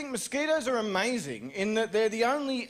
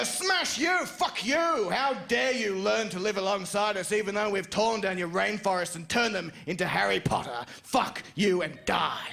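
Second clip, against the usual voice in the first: mock rage. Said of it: "You go".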